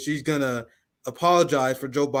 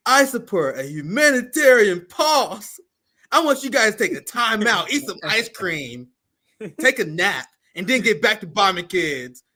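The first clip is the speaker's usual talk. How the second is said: lightly mocking politician's statement; slow, measured parody of a mild plea; Bernie Sanders; 4 semitones higher, 3 dB louder, slower than usual. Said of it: "He like".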